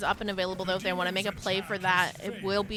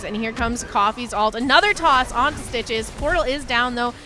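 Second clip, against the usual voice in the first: excited play-by-play; 3 dB louder than usual. Real, not acted. Caster calls a close escape.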